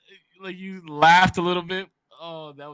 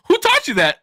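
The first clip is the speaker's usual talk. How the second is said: mock shocked parent; 7 dB louder than usual. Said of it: "And I was like".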